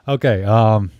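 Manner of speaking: talking while chewing gum; words around a wad of gum. Real, not acted. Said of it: "Let me spit out my gum".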